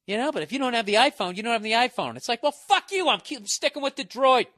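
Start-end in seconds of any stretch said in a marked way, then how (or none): 0.0-2.2 mock ad pitch. 2.4-4.5 much higher, louder defiant snap; high loud mock outburst at the phone ad; angry retort.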